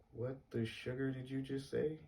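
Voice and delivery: can't believe what you just heard; stunned disbelief. Retold or imitated. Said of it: "like that".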